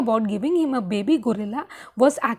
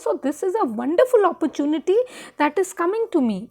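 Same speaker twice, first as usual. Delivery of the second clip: eager persuading; 3 semitones higher, faster than usual. Retold or imitated. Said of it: "he's trying to build up the background".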